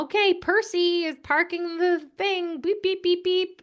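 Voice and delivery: Thomas show voice. Retold or imitated. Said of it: "where they go".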